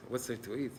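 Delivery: soft, rising, disbelieving repeat of "What's there to eat?"; incredulous wife echo. Retold or imitated. Wife repeating her husband's question back in disbelief. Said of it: "The woman looks".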